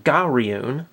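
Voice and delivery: "Garyun" said slowly, syllable by syllable, Japanese-style; Japanese name pronounced. Shown as a demonstration. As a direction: say "Garyun" carefully, as the Japanese reading. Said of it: "it is pronounced".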